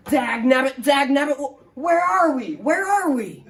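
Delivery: put-on old-timer sputtering awake; Ed waking up at camp, confused; cranky old man. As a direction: grumble like a cranky geezer, then ask. Ed wakes cursing.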